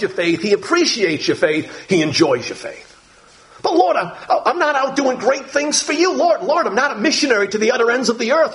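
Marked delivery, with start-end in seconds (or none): 3.6-8.5 laughing self-doubt. Retold or imitated. Voicing a self-doubting believer.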